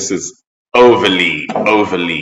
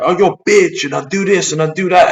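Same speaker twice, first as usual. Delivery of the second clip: high, hammed-up tough-guy bragging; mock tough guy; 11 semitones higher than usual. Mocking the angry ranter's tough-guy bragging. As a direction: ham up his aggressive boasting.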